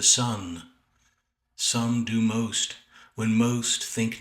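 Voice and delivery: deliberate verse reading with pauses between phrases; poetry recitation. Acted. Poet reading a sonnet on his early-morning writing, measured recitation. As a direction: recite the poem in measured phrases, drawing out the line endings.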